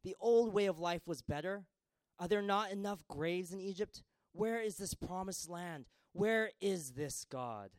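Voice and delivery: high, loud grumbling protest; complaining crowd. Acted. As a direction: whine like a fed-up crowd. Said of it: "the people began to complain".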